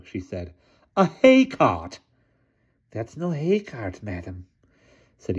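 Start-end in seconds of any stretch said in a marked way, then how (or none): 1.0-2.0 put-on slow, loud, imperious old lady. A narrator's reading. 2.9-4.5 slow, creepy hunchback servant; hunchback assistant. A narrator's reading.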